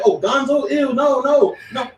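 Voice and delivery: lightly mock people recoiling from guns; mock squeamish. Mimics people squeamish about guns.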